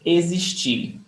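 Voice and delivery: existir with the X voiced as a Z. Shown as a demonstration. Teacher introducing the verb to the class, X said as Z. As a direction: say existir with a buzzing Z for the X. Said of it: "The X is pronounced as Z".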